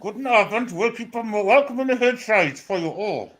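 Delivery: put-on German accent. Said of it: "it's a German Welsh accent".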